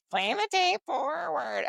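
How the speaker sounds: high, slow nasal imitation; drawn-out nasal drone of a counselor. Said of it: "This counselor at my first treatment center had the most nasally voice".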